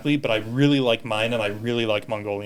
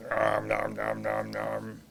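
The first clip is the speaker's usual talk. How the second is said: mock eating noise; 2 semitones lower, 7 dB quieter, slower than usual. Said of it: "eating sound words".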